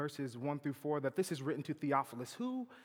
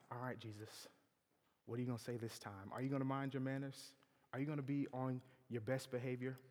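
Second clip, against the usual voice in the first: softer, hushed wary question; wary aside; 7 dB quieter than usual. Acted. Listeners quietly asking Jesus to behave, softer. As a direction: lean in and ask warily.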